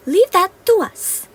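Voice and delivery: high, slow playful promise; confident fairy. Acted. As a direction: assure him with a sparkle.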